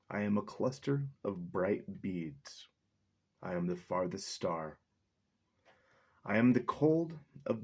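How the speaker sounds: measured, earnest poetry reading; slow recital of a nature poem. Acted. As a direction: read it like a chant of being. Reads poem aloud.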